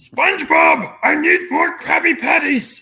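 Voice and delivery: very high, loud, badly done cartoon voice. Joking while discussing the actor Clancy Brown, a terrible Mr. Krabs impression. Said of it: "That was a terrible Mr. Krabs impression".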